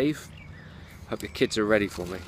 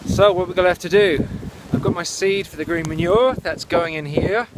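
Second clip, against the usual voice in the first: shouting over wind; 5 semitones higher, 4 dB louder than usual. Real, not acted. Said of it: "Tell me if I'm shouting".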